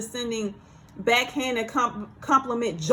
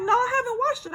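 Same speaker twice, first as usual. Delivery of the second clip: higher voice, laughing through the words; 12 semitones higher, faster than usual. Retold or imitated. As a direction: chuckle out the denial. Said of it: "I kinda laughed".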